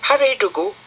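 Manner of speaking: put-on high bright little girl voice; high-pitched girl character; Florence's voice. A narrator's reading. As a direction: lift into a girlish squeak for Florence.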